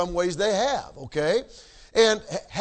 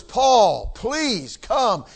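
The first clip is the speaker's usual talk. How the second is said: eager invitation; 2 semitones higher than usual. Retold or imitated. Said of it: "It was".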